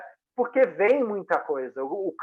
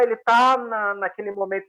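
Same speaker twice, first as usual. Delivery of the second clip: usual speaking voice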